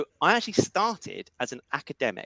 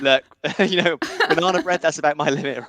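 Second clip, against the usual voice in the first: laughing; 4 dB louder than usual. Real, not acted. Joking about baking skills.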